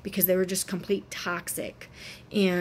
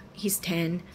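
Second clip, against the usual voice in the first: whispered, slowed, choked up; a mother barely able to say it; breaking to a whisper. Real, not acted. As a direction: let it slip out as a whisper. Telling of son's distress.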